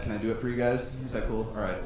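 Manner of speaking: ordinary talk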